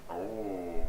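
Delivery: theatrical oh. Shown as a demonstration. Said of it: "I gotta say it like this".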